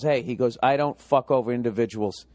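a hint of a smug banker. Comic tells of banker explaining himself calmly, low.

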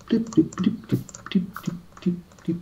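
high squeaky alien chant. Pretend. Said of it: "Why am I sounding like an alien?".

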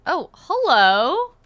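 loud, slow drawn-out hello; mock sweet greeting. Killer greets survivor, drawn-out and loud. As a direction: sing it out at the prey.

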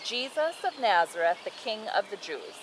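put-on measured, clear read-aloud to a child; storybook narration with firmly projected key words; Bible story narration. A narrator's reading.

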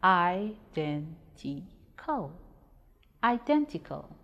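"identical" slowly split into four separate syllables. Shown as a demonstration. Teacher breaking "identical" into syllables for pupils, slow and separated. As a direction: break "identical" apart, pausing after each syllable. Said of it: "If we break identical into syllables".

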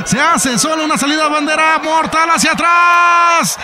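excited lucha libre play-by-play; wrestling commentator. Acted. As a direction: call the match live, rising with the action.

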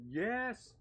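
sharp, high, loud "Yes!"; excited cheer. Real, not acted. Player cheering a new supporter for the cause, excited. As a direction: cheer it out in triumph.

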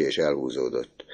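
ordinary delivery, nothing marked

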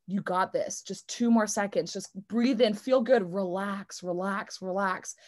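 gentle calming murmur; calming self-talk. Retold or imitated. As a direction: soothe yourself through the pain. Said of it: "Or it's like".

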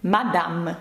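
"Мадам" with a clear oral A and full M; non-nasal vowel. Shown as a demonstration. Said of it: "Це не носовий звук".

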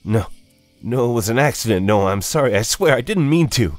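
high, loud, rushed protest; panicked, acted apology tumbling out; frantic pleading. A narrator's reading. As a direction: plead desperately with your accuser. Jonah pleads with accusing dead brother.

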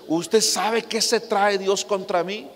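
mild mock anger, slow and drawn out; angry woman quoted. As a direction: imitate her grievance lightly, slowly. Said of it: "Y muy enojada me dice".

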